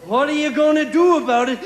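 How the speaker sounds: a hammed-up giant daring him to act; menacing giant. Giant challenges the milkman.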